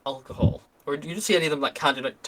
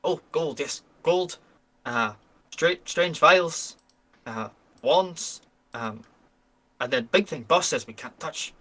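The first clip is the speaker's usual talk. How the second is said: boastful goblin. Acted. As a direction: brag like a simple goblin about the big haul. GM voices goblin NPC.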